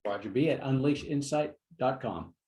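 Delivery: slow, measured read-back of an email address. Real, not acted. Host reading the guest's email back, slowly. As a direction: repeat it back slowly, word by word. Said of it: "One more time, a little slower".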